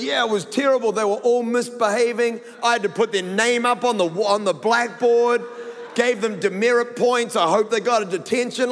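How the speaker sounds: a hint of a prim little boy, self-important; mock earnest kid. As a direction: play the son as a little rule-keeper. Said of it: "he's talking like this".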